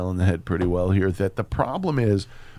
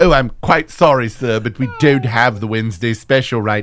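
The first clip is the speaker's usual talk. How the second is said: painfully polite Brit. Acted. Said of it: "British people being painfully polite".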